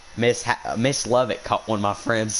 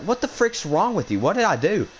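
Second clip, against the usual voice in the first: high-pitched retold indignant comeback; indignant protest; 10 semitones higher than usual. Student protesting to a yelling teacher, indignant. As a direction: act out answering back, pitched way up.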